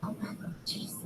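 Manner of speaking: real hushed whisper of wonder; whispering in awe at the sky; awed whisper. Real, not acted. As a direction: breathe it out in awe.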